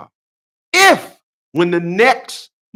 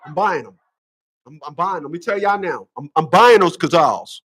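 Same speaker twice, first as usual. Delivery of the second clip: laughing. Real, not acted. Laughing at own joke.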